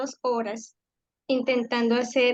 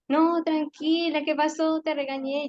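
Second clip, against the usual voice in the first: soothing concern; 4 semitones higher than usual. Retold or imitated. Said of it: "y ella".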